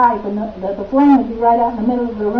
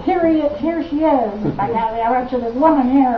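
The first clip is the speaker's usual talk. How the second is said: mock introduction. Retells Peter presenting her to Bukowski.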